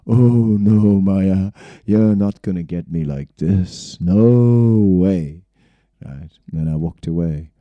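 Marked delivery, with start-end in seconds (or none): 0.1-5.4 mock refusal. Refusing temptation, quoted self.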